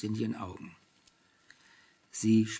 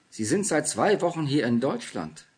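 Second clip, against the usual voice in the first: astonished question, pitched up and louder; taken aback, higher and stronger; baffled; 4 semitones higher, 5 dB louder than usual. A narrator's reading. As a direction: ask it in disbelief, lifting the voice. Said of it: "fragte der alte Buchhändler verblüfft".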